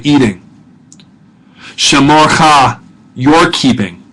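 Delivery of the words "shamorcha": "Shamorcha" said slowly with the accent on the final "cha"; "Shamorcha", deliberate, last syllable "cha" stressed. Shown as a demonstration. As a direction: land on "cha" at the end of "Shamorcha". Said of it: "Notice where the accent is there on the cha".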